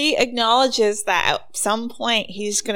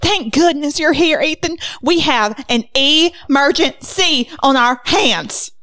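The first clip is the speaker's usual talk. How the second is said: put-on old Southern lady. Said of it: "Aunt Mercy answered the door".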